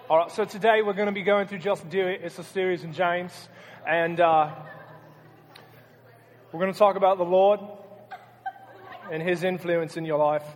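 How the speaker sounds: playful, put-on British accent; loosely imitated British accent. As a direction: lecture in a mock British accent. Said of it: "What if I talk in a British accent?".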